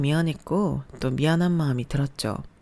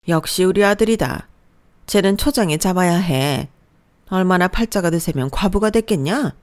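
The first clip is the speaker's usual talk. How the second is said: a louder, bossy mother-in-law lecturing her daughter-in-law; mother-in-law putting the new bride in her place, a touch louder; scolding mother-in-law; 2 semitones higher, 5 dB louder than usual. Acted. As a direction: lay down the law like a domineering mother-in-law. Mother-in-law praises son, insults wife.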